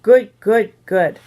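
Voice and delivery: lightly voiced toddler repeating; little boy. A narrator's reading. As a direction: punch each word like a toddler. Toddler parrots his mother's praise.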